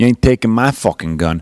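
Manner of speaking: failed New York accent slipping into Southern accent. Trying accents for everybody, the speaker attempts new york: failed new york accent, southern. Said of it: "That's not New York either. I still throw the Southern".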